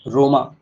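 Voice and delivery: रोमा with an open "maa" ending; corrected pronunciation. Shown as a demonstration. Teacher repeating the reading before spelling it, रोमा with silent n. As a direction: say रोमा with no final n. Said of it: "पढ़ा जाएगा रोमा".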